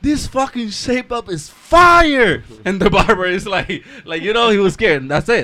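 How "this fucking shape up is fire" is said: slow, high, loud imitation yell; shouted outburst. Imitating a YouTuber in the barber's chair, shouting. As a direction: drag it out and yell the last word.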